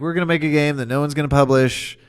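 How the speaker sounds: a bad British voice, cheerfully done; imitating a British accent, light; terrible British accent. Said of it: "I gave them a terrible British accent".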